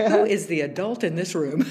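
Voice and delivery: asked through a laugh; laughing at her own parenting; laughing aside. Real, not acted. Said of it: "laughing at herself".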